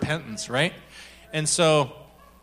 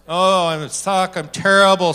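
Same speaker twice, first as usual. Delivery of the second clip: mock self-loathing; 2 semitones higher, 6 dB louder than usual. Acting out self-condemnation.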